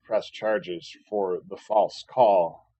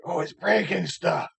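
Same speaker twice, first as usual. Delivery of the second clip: higher, put-on mocking voice of the housemates; mocking imitation; 7 semitones higher than usual. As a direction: sneer it like a petty accusation. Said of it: "so they're like".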